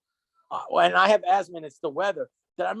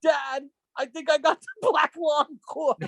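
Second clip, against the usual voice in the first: Derek Zoolander voice; 5 semitones higher, slower than usual. Retold or imitated. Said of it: "like Derek from Zoolander".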